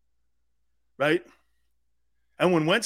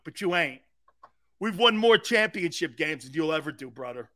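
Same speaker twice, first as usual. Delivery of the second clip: trash talk. Pretend. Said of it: "this is how I would act".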